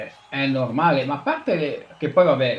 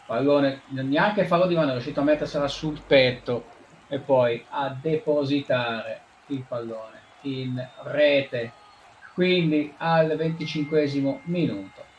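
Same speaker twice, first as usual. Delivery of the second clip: play-by-play commentary; 3 semitones higher than usual. Acted. Commentary continues.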